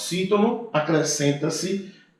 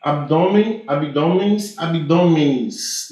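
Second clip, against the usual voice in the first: drawn out; much slower than usual. Shown as a demonstration.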